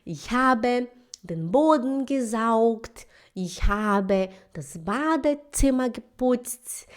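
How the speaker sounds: very slow, careful beginner German; slow learner German. Retold or imitated. Student proudly reciting her chores in German, slowly. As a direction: spell out each word like a hesitant student. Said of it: "Aí ela fala assim".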